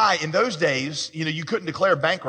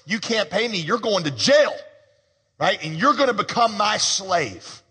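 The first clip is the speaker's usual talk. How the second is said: harsh creditor's verdict; 5 semitones higher than usual. Retold or imitated. Creditor telling the debtor he'll be a slave, stern. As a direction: hand down the sentence coldly.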